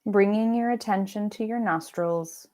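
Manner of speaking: unhurried meditation voice with long pauses; guided meditation. Acted. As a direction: lead them gently into rest, pausing between phrases. Leads guided meditation practice.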